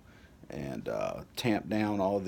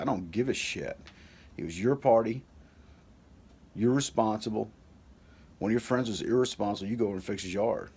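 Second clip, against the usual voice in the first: louder, higher scolding father; angry dad; 3 semitones higher, 5 dB louder than usual. Retold or imitated. Father scolding son after the party, stern and louder. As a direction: lay down the law to your son.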